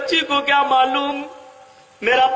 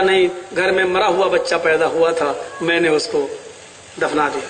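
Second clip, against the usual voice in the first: much lower, hushed confession; wife's fearful lie; 10 semitones lower, faster than usual. Acted. Preacher voices wife's lie.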